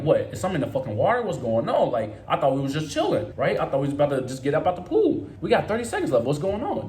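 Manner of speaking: retold freak-out. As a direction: act out baffled alarm in retelling. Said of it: "now I'm starting to freak out".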